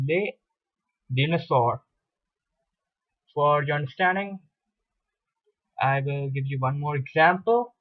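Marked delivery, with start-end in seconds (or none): 0.1-1.8 les dinosaurs said "lay dinosor", both final s silent; silent plural S. Shown as a demonstration. Teacher giving a second French plural example, silent-s pronunciation. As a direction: say les dinosaurs without any s at word ends. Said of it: "it gets now pronounced as".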